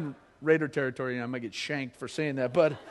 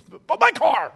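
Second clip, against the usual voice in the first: high, loud whine over the car; hammed-up selfish wail; the other personality mourning his Mustang, mock whine; whiny mock grief; 10 semitones higher, 10 dB louder than usual. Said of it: "dual personality thing".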